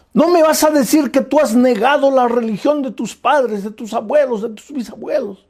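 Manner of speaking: mock outrage at a child turning protestant; mother confronting her daughter over leaving the family faith, indignant. Mother scolds daughter over religion.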